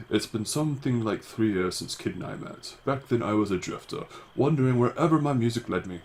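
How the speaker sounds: lightly voiced young wanderer narrating; a hint of a storyteller's character voice; Sergey. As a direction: recount it in a slightly put-on character voice. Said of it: "Sergey is going to have a voice like this".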